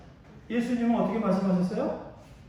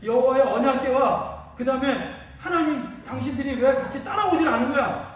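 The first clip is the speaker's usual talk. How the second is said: voicing indignant rebels, building louder; mild acted protest, growing more forceful; confrontational challenge; 3 semitones higher, 4 dB louder than usual. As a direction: demand answers like an aggrieved accuser, voice rising. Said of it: "제가 이렇게 따지는 거야".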